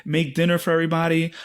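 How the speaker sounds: mock casual small talk; imitating Irish wife. Comic imitates a woman chatting about dinner, lightly put-on. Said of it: "She was just talking about".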